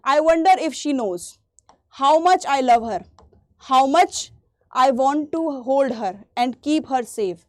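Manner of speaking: poem lines read very slowly with pauses. Acted. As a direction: read it out slowly, savouring each phrase. Reads poem lines to class. (धीमे धीमे कविता पढ़ना)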